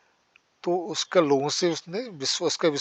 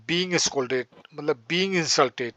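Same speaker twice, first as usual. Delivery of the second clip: slow dictation; 3 dB quieter, much slower than usual. Shown as a demonstration. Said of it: "teacher dictates phrases".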